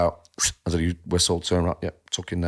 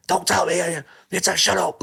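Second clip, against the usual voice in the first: put-on snapping kid voice, pitched much higher; mock angry kid; 11 semitones higher than usual. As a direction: fire it back like a stroppy teenager, high. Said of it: "this kid's losing the shit".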